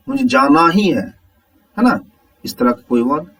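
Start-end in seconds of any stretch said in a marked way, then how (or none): 0.1-1.1 "ही" पर ज़ोर देकर बोलें; "जाना ही" को उभारकर, बलाघात का उदाहरण. Shown as a demonstration. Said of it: "किसी शब्द को जोर से बोला जाता है". ("ही" पर ज़ोर)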